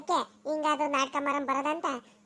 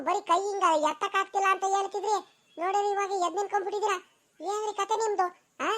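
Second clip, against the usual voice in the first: shocked outrage; 5 semitones higher than usual. Acted. Wife catching her faking husband on his feet, shocked. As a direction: catch him out in disbelief.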